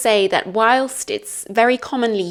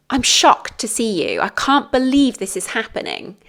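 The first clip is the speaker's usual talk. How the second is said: positive shock; 3 semitones higher, faster than usual. Shown as a demonstration. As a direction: act pleasantly amazed to see someone. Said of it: "is a more positive".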